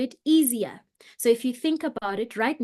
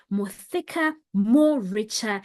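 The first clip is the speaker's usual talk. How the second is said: thicker, richer voice; 2 semitones lower than usual. Shown as a demonstration. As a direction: demonstrate a resonant, richer voice. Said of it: "practicing more resonance in their voices".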